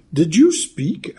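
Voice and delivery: put-on a girl amazed that the scarecrow can talk; in wonder. A narrator's reading. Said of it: "asked the girl in wonder".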